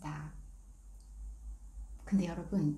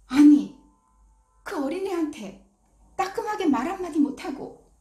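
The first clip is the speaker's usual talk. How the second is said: a louder, higher burst of indignation; frustrated outburst; 7 semitones higher, 7 dB louder than usual. Retold or imitated. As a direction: vent the anger at yourself, loud and high. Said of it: "자기도 모르게 이런 말이 나오더래요".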